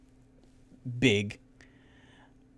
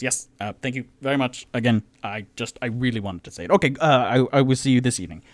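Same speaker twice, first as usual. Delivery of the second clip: character voice; 2 semitones higher, 6 dB louder, much faster than usual. Acted. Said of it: "And Tutu goes".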